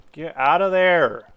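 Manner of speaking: yelled command, slow and loud; shouting orders over battle. Real, not acted. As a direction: bark the order at the troops. Units getting shot, yelling at troops.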